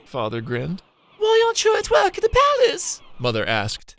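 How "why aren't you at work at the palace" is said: high, loud motherly call. Acted. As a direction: call out across to him. Mother calls out to son.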